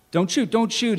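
high-pitched, submissive panic; meek pleading. A narrator's reading. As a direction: plead meekly for your life. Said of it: "suddenly meek".

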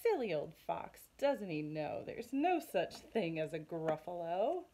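lightly voiced amused scoff; smug mouse. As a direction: mouse chuckling at the fox, smug. Mouse mocks fox.

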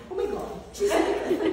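whispered through laughter, mock shocked husband; laughing husband quote. Nurse imitates her husband seeing her naked, laughing whisper. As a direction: gasp it out while laughing. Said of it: "my husband will say".

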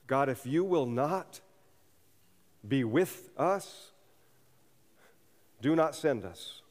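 slow, solemn plea to God; slow sincere petition; slow earnest prayer. Retold or imitated. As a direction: pray it slowly and earnestly. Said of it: "pray as Moses prayed".

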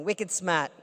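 wicked smart in a light Boston accent, smart said "smaht" with no r; a playful hint of Boston accent. Shown as a demonstration. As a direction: drop the r in smart, Boston style. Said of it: "I can say that with a Boston accent".

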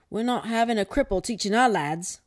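a hint of an indignant headmaster. A narrator's reading. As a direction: announce it as a school head. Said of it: "said Headmaster".

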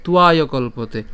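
slow, measured Sanskrit shloka; deliberate teaching recitation; full verse recitation. Shown as a demonstration. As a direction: recite the whole verse in drawn-out, separated phrases. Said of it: "প্রথম থেকে যদি বলি".

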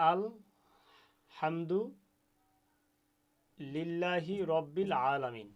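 আল হামদু said apart with a pause between parts; slow split recitation. Shown as a demonstration. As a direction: sound out আল হামদু লিল্লাহি syllable by syllable. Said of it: "গলাটা চাপ হবে".

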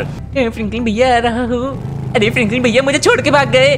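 a hint of a whiny kid; Shinchan voice. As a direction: play the cheeky little boy. Shinchan voice in game.

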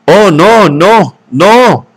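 a woman shaken by her attacker protesting in fear; frightened protest. Acted. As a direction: beg him to stop, voice jolted. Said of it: "protestó Lenina, con voz grotescamente entrecortado".

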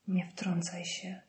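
ciche, powolne ostrzeżenie; ostrzeż półgłosem, powoli; ostrzegawcze warknięcie. A narrator's reading. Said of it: "warknęła ostrzegawczo Ellen". (przyciszone warknięcie z groźbą)

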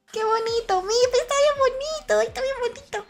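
tiny, very high delighted squeal; overjoyed gushing. Real, not acted. Admiring the pretty drawing of her, overjoyed.

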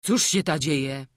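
lightly acted peasant grumbling; gruff grumble. A narrator's reading. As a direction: grumble it loudly, puzzled. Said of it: "mruknął".

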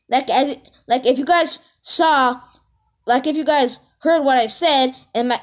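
animated rant, pitch lifted; real but mild outrage; worked-up raging. Real, not acted. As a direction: rant indignantly about what she did. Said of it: "I'm freaking raging right now".

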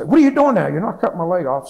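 high, loud, panicky question; retold panicked questioning during surgery; frantic demand. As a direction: cry out to the surgeons in alarm. Anxious patient questioning surgeons.

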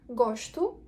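"Гошту" with sh before t, final u; вимова з ш і у. Shown as a demonstration. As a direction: say "Гошту" as GOSH-tu. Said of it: "перед приголосною читається як «ш»". («Гошту»: ш перед т, у в кінці)

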